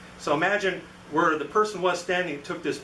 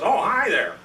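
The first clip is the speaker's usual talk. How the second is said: higher-pitched startled greeting; mildly startled; 6 semitones higher, 4 dB louder than usual. Retold or imitated. Man at desk turns round to a visitor, mildly startled. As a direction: greet as if caught unawares. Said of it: "he's kinda startled".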